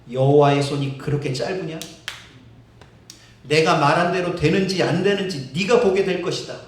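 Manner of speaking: low and loud, stern rebuke; low loud stern God; God's rebuke. Acted. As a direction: thunder it down as God.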